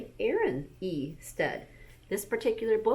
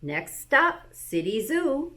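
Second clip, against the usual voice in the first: higher, louder driver calling out; bus driver call; 6 semitones higher, 4 dB louder, slower than usual. Acted. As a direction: announce the stop like a driver.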